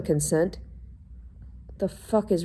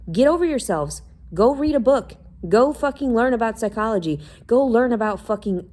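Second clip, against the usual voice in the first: furious shouting, higher and louder; real angry rant; 5 semitones higher, 6 dB louder than usual. Real, not acted. Ranting at people who ignore her, shouting angrily. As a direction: yell it at people who won't listen. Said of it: "I'm fucking angry right now".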